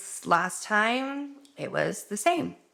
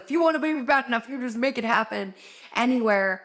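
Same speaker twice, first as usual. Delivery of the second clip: mock commenter; 4 semitones higher, faster than usual. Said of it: "somebody in the comments is gonna be like".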